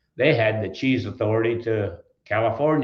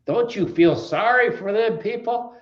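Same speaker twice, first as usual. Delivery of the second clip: laughing; 10 semitones higher than usual. Retold or imitated. Wife's remark at the hearing.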